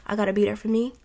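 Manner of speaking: relaxed, even-voiced boundary setting. Gently telling someone you need time for yourself, relaxed. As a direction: say it calmly, without pushing. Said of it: "on a relaxed, addressful way".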